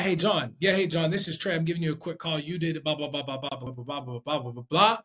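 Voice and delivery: controlled quick-call delivery; quick but controlled. Shown as a demonstration. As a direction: rattle through the call, settling down as you go. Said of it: "Sounds different than".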